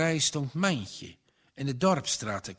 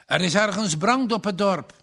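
higher, louder sudden call-out; exclaiming; 5 semitones higher, 4 dB louder than usual. A narrator's reading. Minister hears the bell and exclaims. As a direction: blurt it out at the bell. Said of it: "riep de dominee uit".

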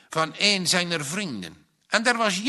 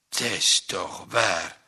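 beaming; 9 semitones lower than usual. A narrator's reading. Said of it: "glunderde Ai".

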